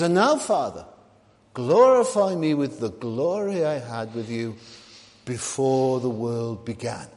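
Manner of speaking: Jesus. Acted. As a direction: pray it out, slowing on the last phrase. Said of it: "Jesus is praying to his Father".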